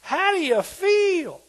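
slow, high, loud holler; hollered question. Retold or imitated. King hollering into the furnace, high slow call. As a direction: call into the fire, drawn out. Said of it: "he hollered in there".

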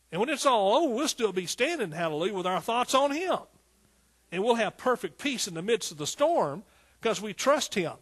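loud, high, triumphant preaching; full-force preaching. Real, not acted. Preacher promising peace in the storm, full-force preaching. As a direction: lift it to a rousing peak.

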